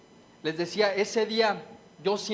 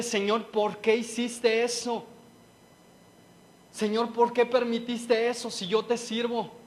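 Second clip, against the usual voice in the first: anguished plea to God; 3 semitones higher than usual. Retold or imitated. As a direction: plead with God, rising into a cry. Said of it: "quería salir algo y decirle".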